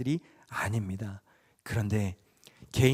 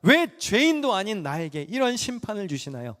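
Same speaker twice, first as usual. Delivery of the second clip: mock protest; 5 semitones higher than usual. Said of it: "거칠게 항변합니다".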